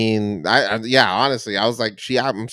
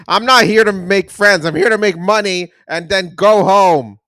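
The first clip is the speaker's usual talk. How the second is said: mock rant; 8 semitones higher, 8 dB louder than usual. Ranting against forced friendship.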